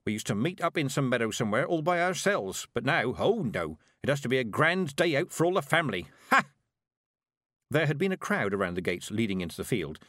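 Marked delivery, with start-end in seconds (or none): 0.0-6.5 a lightly voiced stern old witch, scornful; grumbling Granny. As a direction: scoff at the crowds like a sour old witch. Granny complaining about the fair.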